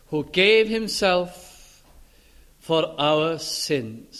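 very slow, "gave" leaned on; slowly, with weight on "gave"; stress on gave. Shown as a demonstration. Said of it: "Now notice the emphasis here".

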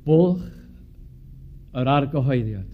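"Bwlch yr argyhoeddiad" spoken in Welsh pronunciation; "Bwlch yr argyhoeddiad" in careful native Welsh. Shown as a demonstration. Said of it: "I'll say it in Welsh".

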